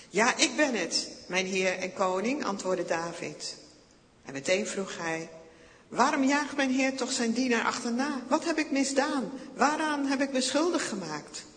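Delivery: high, loud, wounded protest; loud pleading. A narrator's reading. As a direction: cry out your innocence to the king. David pleads with King Saul.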